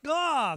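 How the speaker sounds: high, pained "oh"; pained cry. Acted. Bystander deafened by Bartimaeus, pained cry. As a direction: recoil from a yell in your ear.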